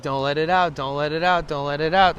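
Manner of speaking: loud insistent repeats; repeated pleading. Retold or imitated. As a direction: bark the warning over and over. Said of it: "I'm like".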